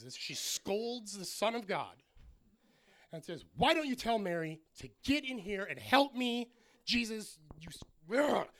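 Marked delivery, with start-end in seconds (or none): 3.6-8.5 loud, high, mock-indignant scolding; hammed-up exasperation, breaking into a frustrated grunt; scolding yell. Martha yelling at Jesus for help, imitated scolding. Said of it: "She's yelling at God".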